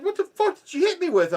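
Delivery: high, loud, incredulous demand; mock-outraged yelp of a question; outraged disbelief. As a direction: imitate a stunned victim yelling a question. Retold robber's outraged, baffled question.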